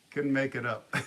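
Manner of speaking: amused, breaking into a laugh. Real, not acted. Storyteller amused by own crazy story, laughing. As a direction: let the laugh take over at the end.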